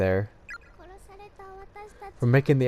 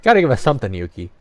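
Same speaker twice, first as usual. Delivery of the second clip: louder, exasperated plea; 4 dB louder, much faster than usual. Real, not acted. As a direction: demand something back, fed up. Pleading protest to the ghost.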